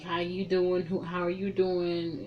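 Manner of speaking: soft, lightly voiced suitor; retold smooth introduction. Man approaches woman at party.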